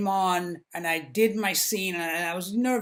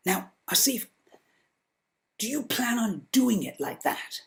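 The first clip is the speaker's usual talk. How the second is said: English director gently mocking the actor, polite English accent. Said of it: "in a very polite English sort of way".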